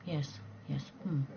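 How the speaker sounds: a hint of a quiet, absent murmur; bored bloke. Mimicking a bloke who just goes along, mild murmur. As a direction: mumble politely, not listening. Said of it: "he's like".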